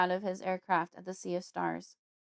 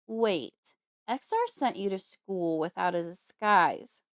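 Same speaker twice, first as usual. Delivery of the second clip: growling; 5 dB louder, slower than usual. Acted. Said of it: "a low sound like a growl in his throat".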